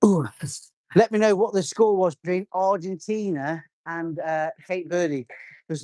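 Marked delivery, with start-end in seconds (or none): 0.0-0.2 strained exhale under the weight; effort grunt. Real, not acted. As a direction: grunt through the lift. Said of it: "I'm sorry for all the grunting".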